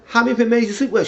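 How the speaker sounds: loud, high-pitched indignant demand; acted accusation. Man confronting a woman over other men, indignant. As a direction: fire the question at her, high and loud.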